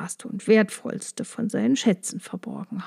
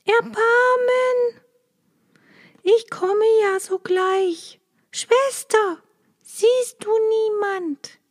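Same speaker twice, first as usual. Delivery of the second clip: much higher, desperate pleading wife; begging for mercy; 12 semitones higher than usual. A narrator's reading. Wife begging Blaubart for mercy, very high and desperate. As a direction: plead in panic, then call up.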